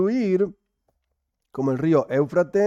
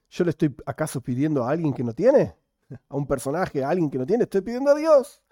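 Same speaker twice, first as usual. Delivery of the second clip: incredulous protest. Acted. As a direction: plead your case in mock amazement, pitch leaping at the end. Rabbi protesting to God in quote.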